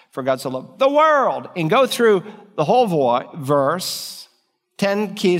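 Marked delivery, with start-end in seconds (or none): 0.1-1.5 "world" given the weight, falling at the end; stress on world. Shown as a demonstration. Preacher showing how to stress "world" in John 3:16. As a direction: land on the word "world". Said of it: "just emphasize ten key places in it".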